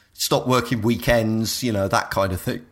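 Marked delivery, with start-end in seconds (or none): 1.6-2.7 talking through hiccups. Real, not acted. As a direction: speak with small hiccups breaking in. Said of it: "Sorry, I've got the hiccups".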